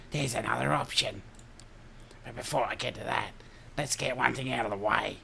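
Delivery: put-on broad Aussie Ocker accent; rough Australian Ocker accent. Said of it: "the old Ocker voice".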